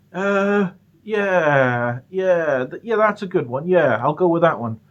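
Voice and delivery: high, eager grab at an excuse; relieved. Retold or imitated. Son seizing mum's cartoon-convention excuse, high and eager.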